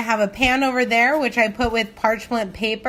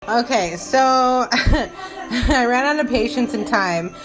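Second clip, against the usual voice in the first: laughing; 3 semitones higher, 6 dB louder, slower than usual. Real, not acted. Laughs while admitting impatience.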